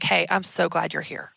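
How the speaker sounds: soft welcoming hello; soft, slow greeting. Shown as a demonstration. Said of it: "like a softer tone of voice".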